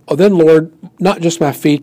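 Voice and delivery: eager Peter. Acted. Peter eagerly offers his whole self.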